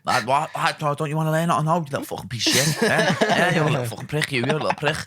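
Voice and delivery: hammed-up scolding with lively pitch jumps; mock berating. Mimicking the training partner abusing anyone who won't join his drill, mock berating. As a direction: imitate someone tearing into a reluctant student.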